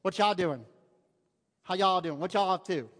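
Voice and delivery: loud Arkansas greetings; Arkansas accent. Shown as a demonstration. Preacher imitating cousins greeting folks, Arkansas accent. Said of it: "that's how they say it".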